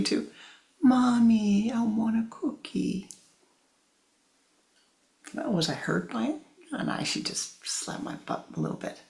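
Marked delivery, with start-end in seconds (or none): 0.8-3.1 changed voice. Shown as a demonstration. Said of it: "my voice changed".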